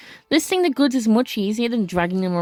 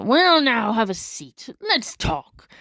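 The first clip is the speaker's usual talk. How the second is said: put-on old pirate. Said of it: "give it to the sailor".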